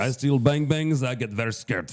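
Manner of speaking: high, fake Polish accent turning French. Telling a whole story in a polish accent that drifts into french. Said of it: "It became French".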